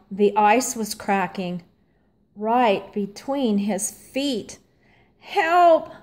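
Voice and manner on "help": higher, louder cry for help. A narrator's reading. Stanley cries for help on cracking ice, high and loud. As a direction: call out in alarm. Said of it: "cried Stanley".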